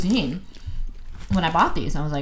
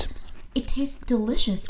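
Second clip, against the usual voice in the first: whispering; 4 semitones higher, 5 dB quieter than usual. Real, not acted. Whispered verdict.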